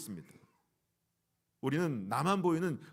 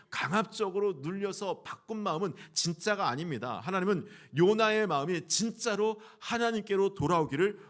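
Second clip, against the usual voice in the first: raised, emphatic sermon voice; forceful preaching; 4 semitones higher, 4 dB louder than usual. Real, not acted. Preacher telling the congregation God waited for Jonah's heart, forceful preaching. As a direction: drive the point home to the congregation.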